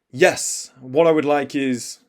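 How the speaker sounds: loud, measured, confident order; strong, assured opening; coming in strong. Shown as a demonstration. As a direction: project firmly from the first word. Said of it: "come in strong".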